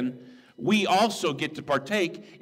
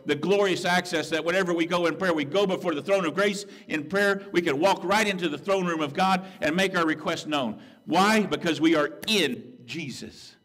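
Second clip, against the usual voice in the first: rising preacher fervor; 4 semitones higher than usual. Real, not acted. Preacher exhorting the church about prayer access, rising fervor. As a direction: lift the congregation, climbing in pitch and force.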